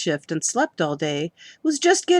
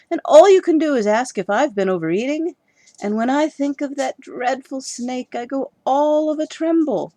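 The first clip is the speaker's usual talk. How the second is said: much higher, louder indignant outburst; hurt wife snaps back at husband; bursting out; 7 semitones higher, 7 dB louder than usual. Acted. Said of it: "Missus Crow burst out".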